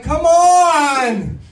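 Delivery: hammed-up high complaint; mock whining plea. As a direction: whine like a frustrated kid. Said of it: "I'm like".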